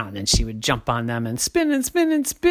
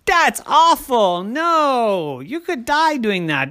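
alarmed scolding dad; 7 semitones higher, slower than usual. A narrator's reading. Daddy scolds in story.

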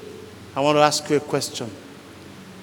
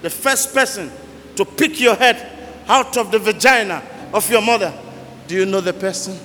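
preaching; 3 semitones higher than usual. Acted. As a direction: drive the questions home to the congregation. Preacher building to climax.

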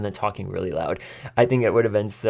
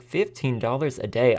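incredulous question rising at the end; mild mock shock at the pay; disbelief; 3 semitones higher than usual. Juror reacting to the pay sheet, mild disbelieving question. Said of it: "But I was like".

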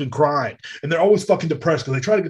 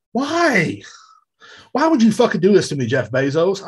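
high, louder mock outcry; mock anguish; 5 semitones higher, 4 dB louder than usual. Customer wailing at Jeff Bezos, mock outcry. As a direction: wail at the sky. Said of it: "complaining to Amazon".

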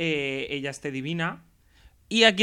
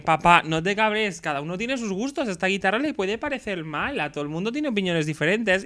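placating daughter; 3 semitones higher than usual. Acted. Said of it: "la Miley está en plan de".

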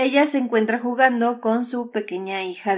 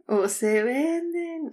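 crackly looped vendor recording; 4 semitones higher, 4 dB quieter, much slower than usual. Retold or imitated. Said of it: "Ya sé qué sonido es".

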